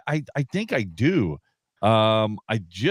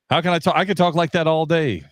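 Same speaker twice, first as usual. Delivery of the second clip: raised throat voice; radio voice; 5 semitones higher than usual. Shown as a demonstration. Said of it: "how long can you talk like that for".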